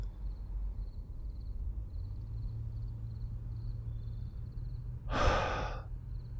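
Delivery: very soft, drawn-out exhale; long weary sigh. Acted. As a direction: slowly breathe it all out. Worn out after venting.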